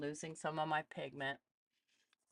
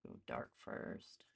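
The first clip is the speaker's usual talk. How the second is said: breathy whisper, slower, under her breath; whispered to herself; 11 dB quieter, slower than usual. Real, not acted. Artist reminding herself while sketching, in a whisper. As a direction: murmur the note to yourself.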